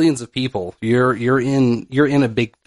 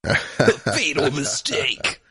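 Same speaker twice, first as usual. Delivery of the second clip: ominous slow; 2 semitones higher, much slower than usual. Pretend. Dramatic ominous pronouncement.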